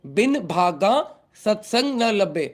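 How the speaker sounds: "भागा" in Hindi accent, with breathed bh. Shown as a demonstration. Teacher repeating the line for non-Punjabi devotees, in Hindi accent. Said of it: "Hindi accent में बोल रहा हूँ".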